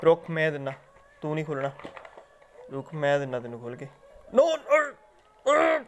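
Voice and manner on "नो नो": very high, very slow stretched-out no; long drawn no. Real, not acted. Owner warning parrot off biscuit, long high drawn no. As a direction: drag the no out high to warn.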